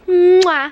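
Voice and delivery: loud, high "mwah"; big exaggerated kiss sound to sign off; blown kiss. Real, not acted. Vlogger thanking viewers for watching, big loud kiss.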